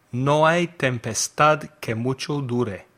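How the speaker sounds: Spanish with a bad accent. Real, not acted. Teacher quizzing learners on idiom translations, bad Spanish accent. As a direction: read the Spanish in a non-native accent. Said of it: "in my bad Spanish accent".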